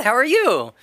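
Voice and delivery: imitated clerk's high, friendly greeting; chirpy shop clerk. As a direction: play the bubbly counter girl asking. Voices cheerful boba shop clerk.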